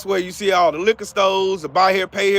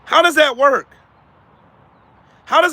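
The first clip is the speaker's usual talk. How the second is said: higher and louder with DOES stressed; emphatic challenge; 6 semitones higher, 4 dB louder than usual. Real, not acted. Challenging viewers again, louder and insistent. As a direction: demand an answer.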